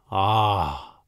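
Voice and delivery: low, contented sigh; satisfied ah. A narrator's reading. Duke savors honey on his roll, satisfied ah. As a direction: let out a satisfied ah.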